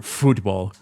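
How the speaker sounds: Football with a British vowel, foot-bawl; mock British accent. Shown as a demonstration. Mocking Tom's football, British accent. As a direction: say Football like a Brit, lightly. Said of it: "you gotta say it with an accent".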